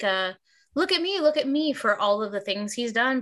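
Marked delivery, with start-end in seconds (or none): 0.7-1.7 mock show-off. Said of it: "You'd think he'd have more".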